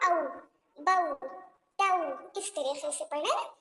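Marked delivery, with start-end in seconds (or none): 0.1-2.4 औ, बऊ, तऊ with the vowel bent toward o, majhul style; औ, बऊ, तऊ said as the wrong majhul sound. Shown as a demonstration. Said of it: "मजमूल तरीके से नहीं पढ़ना".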